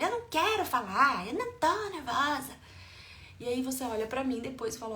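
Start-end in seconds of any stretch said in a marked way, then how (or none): 0.0-2.5 put-on loud, high-pitched child's outburst; upset child. Child snapping at parent's questions about feelings, loud protest. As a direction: yell it like a cross child, pitched up. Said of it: "Aí a criança fala".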